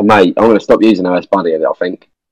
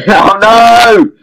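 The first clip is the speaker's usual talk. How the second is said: laughing. Real, not acted. Laughing at dying in game.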